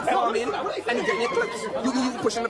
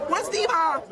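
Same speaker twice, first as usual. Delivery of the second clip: imitating a child; 6 semitones higher than usual. Voicing a child asking.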